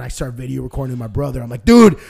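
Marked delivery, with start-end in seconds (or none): 1.7-2.0 loud, higher, laughing teasing shout; laughing mock taunt. Teasing brother on video about dad's wipes, loud and laughing. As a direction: crow it out through laughter.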